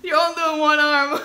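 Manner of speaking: laughing while teasing; giggling at her partner. Real, not acted. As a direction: tease through laughter.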